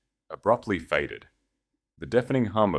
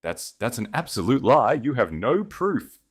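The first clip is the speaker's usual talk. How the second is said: panicked denial; 6 semitones higher, 4 dB louder than usual. Acted. Julian panics, stammering denial.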